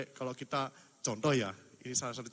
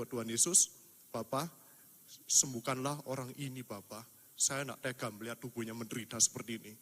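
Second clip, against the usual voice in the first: retold prayer; 2 semitones lower than usual. Retelling his prayer at bedside.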